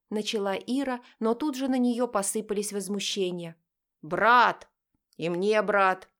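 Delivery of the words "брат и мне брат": loud protest. Acted. Brothers protest in unison.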